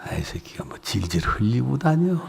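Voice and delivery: whispered with a laugh; inner thought, laughing. Retold or imitated. Pastor's private thought about the husband, whispered laughing. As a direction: laugh it under your breath like a private thought. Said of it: "속으로는".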